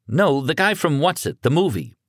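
put-on young son, stunned and scared; panicked teenage son. A narrator's reading. Son voiced.

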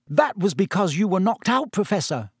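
high-pitched earnest schoolgirl. A narrator's reading. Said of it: "said Hermione earnestly".

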